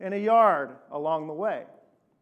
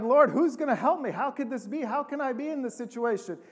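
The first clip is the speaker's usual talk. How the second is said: higher-pitched acted plea for help; desperate plea; 5 semitones higher than usual. Beaten traveler asks the Lord for help, desperate plea. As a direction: plead upward, mildly hammed-up.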